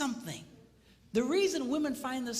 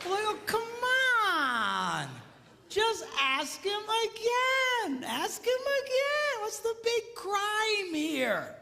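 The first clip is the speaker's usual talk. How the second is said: high, slow, pleading exasperation; preacher's raised, drawn-out plea; exasperated plea; 8 semitones higher, much slower than usual. Real, not acted. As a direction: beg them to just ask again. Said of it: "preacher pleading with congregation".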